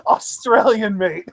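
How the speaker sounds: put-on Australian accent breaking up in laughter; Australian accent, laughing. Retelling wrestler's nickname to co-host, laughing mock Australian accent. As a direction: laugh through the Aussie catchphrase. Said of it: "ridiculous over-the-top Australian accent".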